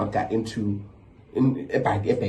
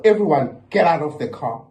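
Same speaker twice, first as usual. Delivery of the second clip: a retold yell, a little louder; mock yell; 3 semitones higher, 3 dB louder than usual. Driver telling everyone to leave, mock yell. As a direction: bark the order out like a fed-up driver.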